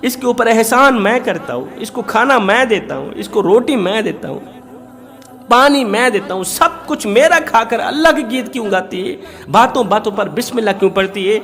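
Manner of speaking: indignant husband. Acted. Hypocrite husband complains about wife. (नाराज़ शौहर की ऊँची, शिकायती आवाज़)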